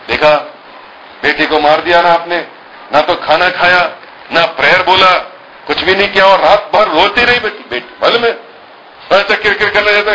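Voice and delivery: a hint of a wife scolding her husband; indignant mother. Mother reproaches father for the crying daughter, high.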